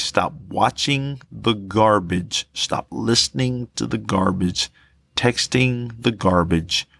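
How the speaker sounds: slow, weighty call to turn away; slow preaching appeal. Acted. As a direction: plead with the congregation slowly.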